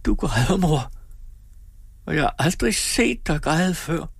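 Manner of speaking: a touch of trembling; trembling whisper. A narrator's reading. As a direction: say it in hushed astonishment. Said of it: "hviskede hun skælvende".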